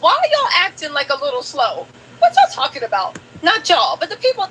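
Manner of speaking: exasperated, going off at the audience; heated. Real, not acted. Streamer scolding her chat over the timeline, heated and rising. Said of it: "Tisa, Tisa done got hot".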